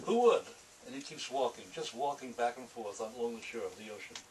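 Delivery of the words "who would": higher, louder exclamation; mock outburst. Author performing his noir monologue, sudden loud rhetorical cry. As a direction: fling out the question loud and high.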